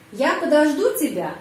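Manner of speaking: подожду lifted, then falling away; question stress on verb. Shown as a demonstration. Teacher demonstrating question intonation for learners, stress on подожду. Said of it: "juga penekanan pada kata kerja".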